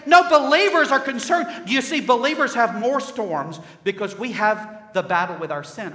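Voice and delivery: loud, high-pitched pulpit rebuttal; forceful preaching. Real, not acted. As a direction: cry it out to the congregation, easing at the end.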